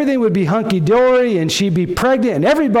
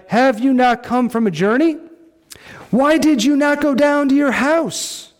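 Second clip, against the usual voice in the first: incredulous king; 7 semitones higher than usual. Acted. David quoted questioning Uriah.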